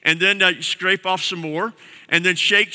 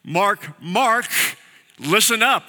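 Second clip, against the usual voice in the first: urgent double call; 4 semitones higher, slower than usual. Shown as a demonstration. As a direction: call the name twice to grab his attention. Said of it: "You say the name twice".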